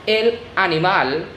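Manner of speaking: "animal" said ah-nee-MAHL, weight on the end; last-syllable stress. Shown as a demonstration. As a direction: stress the final "mal" of Spanish "animal". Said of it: "The stress word in the last syllable".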